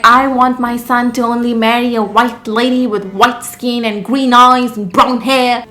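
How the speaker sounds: mock Indian mother accent; put-on Indian accent. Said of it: "why I'm talking in that accent".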